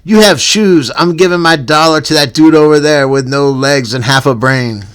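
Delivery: punchy, animated read-aloud rant; comic rant reading. Acted. Host reads a written rant about panhandlers, comic rant. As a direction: read it out like a stand-up bit.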